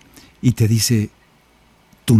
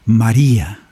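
tender call; slower than usual. Acted. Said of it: "le dice".

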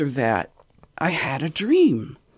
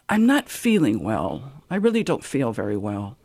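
put-on weak sick old man; 6 semitones lower, 3 dB quieter than usual. Ailing Pope to visiting family, faint and weary. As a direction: let it sag and trail off, barely there.

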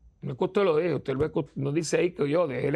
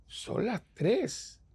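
slow, high, drawn-out; dramatic slowed emphasis; 7 semitones higher, 3 dB quieter, much slower than usual. Real, not acted. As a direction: stretch the hour out for effect. Stressing the late hour.

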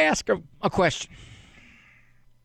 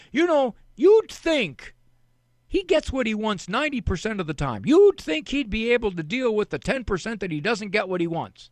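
mock parent complaining, higher and louder at the start; exasperated parent; 6 semitones higher, 3 dB louder than usual. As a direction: play the fed-up parent venting.

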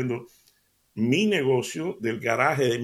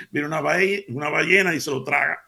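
laughing; 2 semitones higher, 4 dB louder than usual. Real, not acted. Laughing through the whale punchline.

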